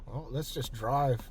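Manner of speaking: talking around a candy; words muffled by a sweet; mouth full. Real, not acted. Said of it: "Sorry, I got a candy in my mouth".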